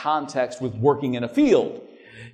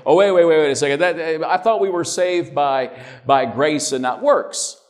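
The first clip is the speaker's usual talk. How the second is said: mock defensive objection. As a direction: imitate someone butting in to object. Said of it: "some might get defensive and say".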